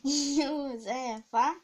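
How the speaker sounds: long drawn-out call. Real, not acted. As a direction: stretch the name out, calling. Calling out again, drawn out.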